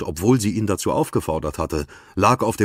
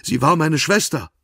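crying; 9 semitones higher, 4 dB louder than usual. A narrator's reading. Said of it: "dass sie weinte".

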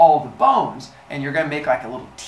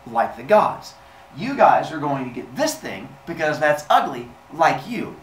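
loud, pompous pronouncement; higher, haughty and emphatic; Zeus; 5 semitones higher, 5 dB louder than usual. Acted. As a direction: lord it over the lowly humans. Zeus grandly claims sticks.

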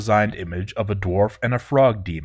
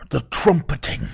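shaky, haunted cry of dread; fearful trembling cry; 6 semitones higher than usual. Acted. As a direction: cry it out in fear. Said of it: "he screamed and ran off".

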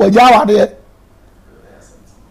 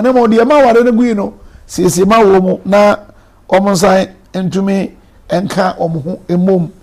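prayer. Acted. Leads a short prayer.

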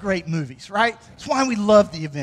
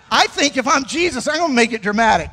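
fast and louder, playfully hyped; playful shout; 3 semitones higher, 4 dB louder, faster than usual. Real, not acted. Preacher joking to the congregation, fast playful shout. Joking about a dramatic entrance.

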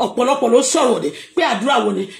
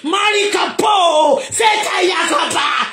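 slow shouted prayer; 3 semitones higher, slower than usual. Real, not acted. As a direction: declare it slowly like a prayer over the congregation. Opening prayer declaration.

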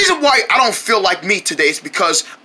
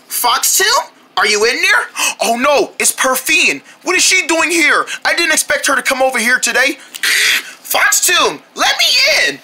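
calling out; 5 semitones higher than usual. Acted. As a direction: shout up from outside to get let in. Friend calling at the door.

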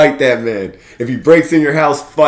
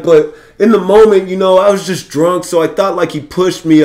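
imitated sister; 5 semitones higher than usual. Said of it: "The sister comes out".

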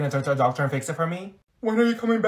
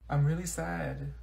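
slow and much softer, droopy; mopey sad; 9 dB quieter, slower than usual. Acted. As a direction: drag each word like nothing matters. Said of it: "you better not be faking this".

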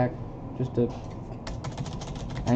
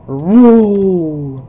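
higher, loud battle shout; loud yell; 4 semitones higher, 11 dB louder than usual. Acted. Soldier warning a teammate, loud yell. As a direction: shout it to dodge. Voicing a game action shout.

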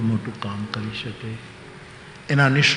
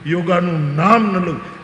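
mock screaming father, higher and louder; hammed-up furious yell; retold yell; 5 semitones higher, 5 dB louder, slower than usual. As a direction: yell and curse the yoga teacher. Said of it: "રાડ પાડી ગયો બાપો".

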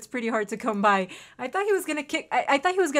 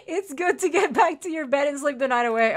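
NPC voice; 4 semitones higher, 5 dB louder than usual. Acted. Reads NPC line.

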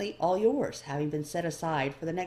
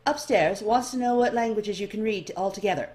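much higher, louder chatty elf voice; bright curious clerk sizing up the newcomer; eager elf librarian; 4 semitones higher, 6 dB louder than usual. A narrator's reading.

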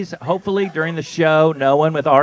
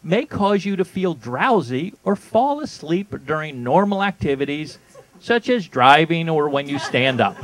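ad read. Shown as a demonstration. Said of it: "here are the side effects".

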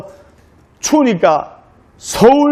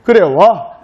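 blunt acted Gyeongsang husband; brusque Gyeongsang man; slower than usual. Gyeongsang groom responds to his insistent bride, brusquely. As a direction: give a gruff Gyeongsang reply. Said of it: "경상도 남자들 좀 무뚝뚝하지 않습니까".

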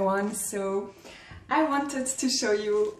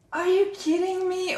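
high-pitched, amazed disbelief; delighted disbelief; 8 semitones higher than usual. Real, not acted. Vlogger reacting to an unexpected gift, delighted disbelief. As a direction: ask it as if you can't believe your luck.

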